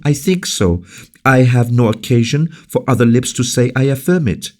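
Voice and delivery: high, fast impassioned speech; passionate defense. Acted. La Valliere to Colbert, high passionate defense. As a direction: defend the guest with fire. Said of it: "passionate energy of her voice".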